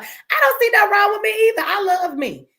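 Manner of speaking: "don't" hit hard, chin up, owning herself; defiant proud declaration. Real, not acted. Answering a viewer's compliment on live stream, defiant and proud.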